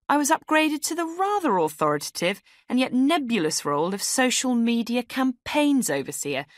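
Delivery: perky round-robin cheer with a sarcastic edge; chirpy email writer. Acted. A woman reading her Christmas email to all, perky.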